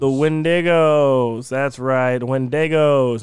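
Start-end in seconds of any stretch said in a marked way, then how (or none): 0.0-1.5 Wendigos stretched out, each syllable clear; Wendigos said slowly. Shown as a demonstration. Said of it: "Not Wendy's, but Wendigos". 2.2-3.2 Wendigos drawn out, falling at the end; slow careful Wendigos, WEN-di-gos; Wendigos said slowly. Shown as a demonstration. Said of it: "Not Wendy's, but Wendigos".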